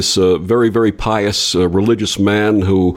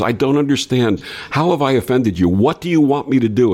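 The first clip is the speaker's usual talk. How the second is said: higher, desperate plea of the pious man; pleading man; 4 semitones higher than usual. Retold or imitated. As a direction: beg God in despair. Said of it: "He says".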